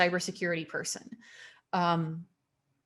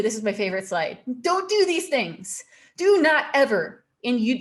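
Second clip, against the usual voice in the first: louder and higher, hammering every "do not"; emphatic warning; 3 semitones higher, 5 dB louder than usual. Real, not acted. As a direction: drum the rule in like a stern warning. Emphatic warning slide, repeated don'ts.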